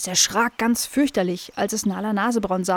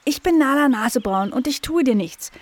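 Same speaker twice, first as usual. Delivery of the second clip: dog voice; 5 semitones higher than usual. A narrator's reading. Dog introduces herself.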